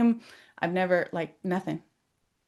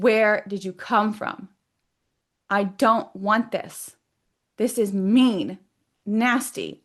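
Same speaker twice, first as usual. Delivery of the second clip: firm confrontation. Retold or imitated. Rejecting the energy running her life, firm and emphatic. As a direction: lay down each objection firmly.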